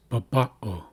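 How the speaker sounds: "babao" stressed on the middle "ba"; middle-syllable stress. Shown as a demonstration. Teacher reading the written word, "babao" with middle emphasis. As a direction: lean on the second syllable of "babao". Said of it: "where we place emphasis".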